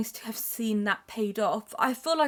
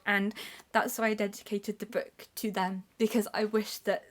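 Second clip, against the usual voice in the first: tearful whisper; 5 dB quieter than usual. Real, not acted. Emotional dedication to grandparents.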